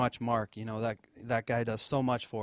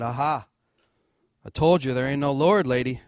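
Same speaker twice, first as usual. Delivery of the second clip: loud triumphant taunt; gloating yell; 2 semitones higher, 10 dB louder than usual. Retold or imitated. Atheist neighbor jumps out to taunt the lady, loud gloating. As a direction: catch her out and crow about it.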